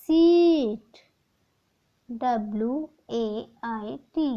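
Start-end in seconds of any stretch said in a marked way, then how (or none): 0.0-1.0 सीट said higher and louder; emphatic answer. Shown as a demonstration. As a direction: announce सीट brightly. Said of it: "what is pronounced a word".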